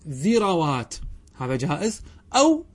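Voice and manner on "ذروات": repeated ذروات as "dhirawaat", short a after ر; fatha on second letter. Shown as a demonstration. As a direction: say ذروات with i, then a, then long waat. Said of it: "بل يجب فتح العين".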